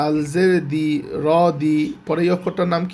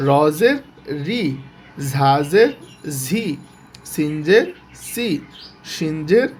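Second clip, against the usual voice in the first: drilled letter recitation; slower than usual. Shown as a demonstration. Teacher drilling students through every letter with জের, chanting. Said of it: "আবার শুরু থেকে যদি বলি".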